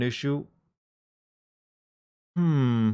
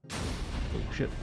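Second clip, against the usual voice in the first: startled, under the breath; whispered oh shit; 10 dB quieter than usual. Real, not acted. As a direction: whisper it in shock. Startled by the game intro.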